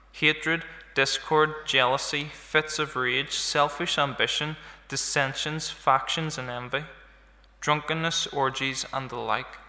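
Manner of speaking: measured Bible reading aloud to the congregation; scripture reading. Acted. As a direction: read the passage as scripture, steady and even. Reading the Galatians passage aloud.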